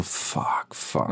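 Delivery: whispered panicked fuck; whispered curse. Retold or imitated. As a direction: breathe the curses out in shock. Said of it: "ich bin so". (geflüsterter Fluch)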